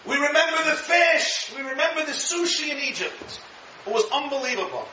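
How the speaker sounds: high, wistful craving voice; lightly hammed-up longing; mock nostalgic whine. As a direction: swoon over remembered food. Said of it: "The Jews were crying".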